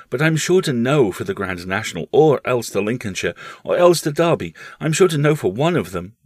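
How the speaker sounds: put-on a keen boy insisting he'll know the winner; boy Paul.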